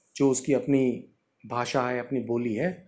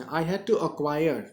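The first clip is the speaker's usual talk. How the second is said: very slow, word by word reading; slow dictation; 2 semitones higher, much slower than usual. Shown as a demonstration. Teacher reading the sentence slowly to the class. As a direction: spell it out slowly for learners. Teacher reads English text aloud.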